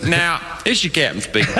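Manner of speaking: mock Southern pilot on the intercom; thick Southern accent. Comic imitates pilot addressing passengers, thick Southern accent. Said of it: "he had the thickest Southern accent".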